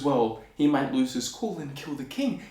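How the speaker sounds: plain reading voice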